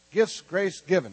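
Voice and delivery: gifts, grace given in slow, spaced-out words; slow and measured. Shown as a demonstration. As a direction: lead a crowd slowly through it. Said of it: "Let's say it faster".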